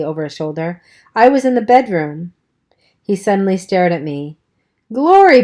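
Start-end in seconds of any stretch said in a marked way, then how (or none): 1.1-2.3 unvoiced whispered aside. Dally's offhand aside. 4.9-5.4 high, loud startled outcry; surprised exclamation. Acted. Dally suddenly surprised.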